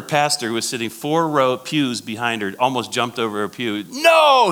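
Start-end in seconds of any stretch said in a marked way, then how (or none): 3.9-4.5 long, very high, loud yell; yelled protest. Retold or imitated. Threatened pastor yelling from pews behind her, loud yell. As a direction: burst out with a panicked, drawn-out shout. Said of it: "he yelled".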